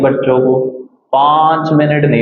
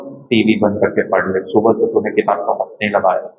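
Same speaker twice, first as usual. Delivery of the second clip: mother's loving plea; 5 semitones lower, 4 dB quieter than usual. Retold or imitated. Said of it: "mummy जब प्यार से कहती है".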